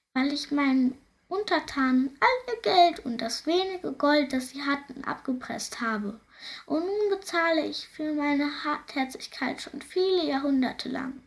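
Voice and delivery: high, sighing voice of a cursed ghost; mournful ghost. Acted. Ghost lamenting his curse to the princess, high and mournful.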